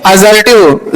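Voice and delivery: teacher modelling असर्टिव as "a-ZER-tiv"; voiced Z in असर्टिव, not a hissing S; Z-sound pronunciation. Shown as a demonstration. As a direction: say असर्टिव with a buzzing Z, "azertive". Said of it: "असर्टिव क्या पढ़ेंगे?".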